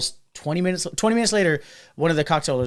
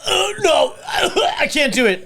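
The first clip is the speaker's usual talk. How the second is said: very high, whimpering imitation; mock panicked refusal; 10 semitones higher, slower than usual. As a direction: squeal it like a comic scaredy-cat. Mimics frightened customer refusing the beer.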